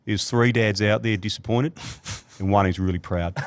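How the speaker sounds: a light hint of Australian accent; dry, lightly done Australian accent. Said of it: "in an Australian accent".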